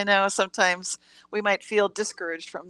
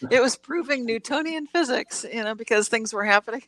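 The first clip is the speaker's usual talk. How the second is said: real giggles creeping into the words; trying not to laugh. Real, not acted. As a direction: talk through suppressed laughter, breaking at the ends. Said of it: "hard to say this without laughing".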